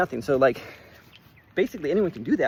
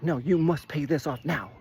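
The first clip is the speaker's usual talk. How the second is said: mock adamant demand. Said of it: "very adamant that".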